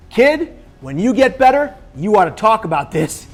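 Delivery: acted-out earnest advice, pressed home loudly; retold firm urging. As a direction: start high and loud, urge him firmly. Retold brother urging him to speak.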